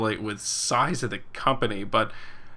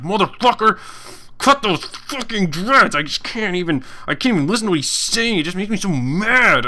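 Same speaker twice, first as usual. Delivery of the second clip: higher, louder hammed-up rage; mock angry viewer; 7 semitones higher, 4 dB louder than usual. Streamer imitates a furious viewer raging about his dreads. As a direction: play the hater losing it over dreads. Mocking an angry hair-hater.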